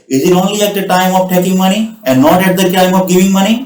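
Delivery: "is it only at the time of taking money" said slowly and evenly, word by word; slow down so learners can follow every word; teacher slows the sentence for students to repeat. Shown as a demonstration. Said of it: "थोड़ा slow down होता हूँ".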